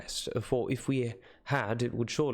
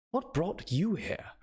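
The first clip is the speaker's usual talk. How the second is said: higher, eager glad question; excited greeting; 8 semitones higher than usual. Acted. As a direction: call out, pleased surprise. Narrator cries greeting.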